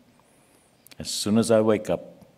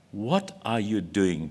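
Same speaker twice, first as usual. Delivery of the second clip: soft, slow and hushed, a gentle inner voice asking; barely above a murmur, slow and searching; God's quiet inner voice asking gently; still small voice; 2 semitones lower, 5 dB quieter, slower than usual. Pretend. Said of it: "that still small voice".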